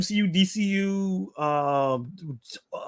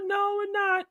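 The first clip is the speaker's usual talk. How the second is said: shouted no; 3 dB quieter, slower than usual. Real, not acted. Playfully refusing chat request.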